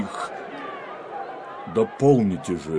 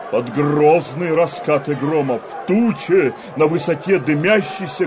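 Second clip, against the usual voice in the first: rising, thundering rebuke; prophetic denunciation. Acted. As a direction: denounce the people like a prophet.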